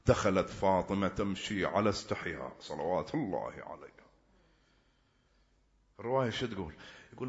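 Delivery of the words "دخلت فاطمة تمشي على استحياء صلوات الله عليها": soft unvoiced whisper of the story; hushed whisper. Real, not acted. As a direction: breathe the words, barely audible. Whispered narration of Fatima's entry.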